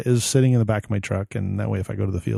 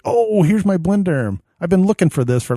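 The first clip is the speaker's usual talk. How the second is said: mock surprise; 8 semitones higher, 5 dB louder than usual. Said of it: "And I was like".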